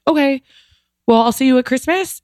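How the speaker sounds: put-on high, light old woman's voice; old mother's brave goodbye. Old mother bids farewell to her son's partner, high and light. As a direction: say it lightly, as if it's nothing final.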